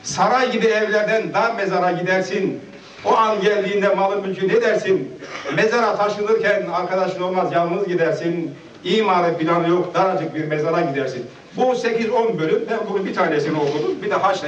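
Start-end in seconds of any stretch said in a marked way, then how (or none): 0.0-11.3 measured folk-poem recital, falling at line ends; poem recitation. Acted. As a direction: recite a rhymed verse to the gathering. (şiir okur gibi)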